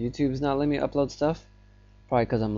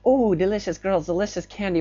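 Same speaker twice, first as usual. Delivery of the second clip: mock creepy yell; 6 semitones higher than usual. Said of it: "yelling, like".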